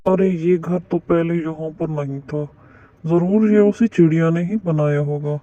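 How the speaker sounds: low-pitched villain bird working it out; suspicious bird muttering to himself; suspicious kite. Acted.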